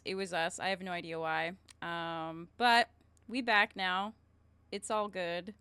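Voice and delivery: ordinary talk, nothing marked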